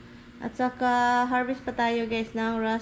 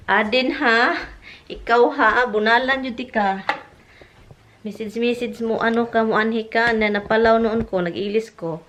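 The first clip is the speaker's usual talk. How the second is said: mock scolding; 6 dB louder than usual. Real, not acted. Scolding absent friend loudly.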